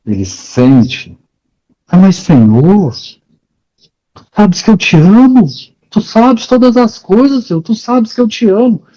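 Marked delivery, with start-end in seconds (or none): 1.9-8.8 much higher, pleading Peter; anguished plea. Retold or imitated. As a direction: beg the Lord with rising urgency, pitched up high. Ele vai subindo nas afirmações. (Pedro implorando, voz bem aguda e aflita)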